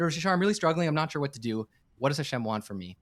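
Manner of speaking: silly American. Retold or imitated. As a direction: sound like a naive young American, beaming. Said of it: "really broken Hebrew that made me sound like the silly, smiling American".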